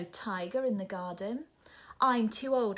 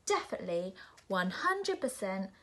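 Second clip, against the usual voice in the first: shouting; 6 dB louder than usual. Acted. Nora shouting at the polar bear, building. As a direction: rant louder and louder at the bear. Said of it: "shouts Nora".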